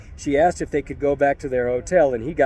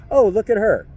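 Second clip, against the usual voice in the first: higher, louder careless remark; mocking drunk; 8 semitones higher, 5 dB louder than usual. Drunk tourists passing the woman, careless and higher. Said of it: "more than an".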